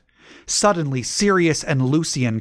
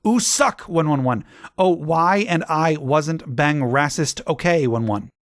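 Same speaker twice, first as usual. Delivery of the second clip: whiny, lisping goth author snapping at critics; mock a sulky teenage writer ranting; 4 semitones higher than usual. Author's note read in put-on voice.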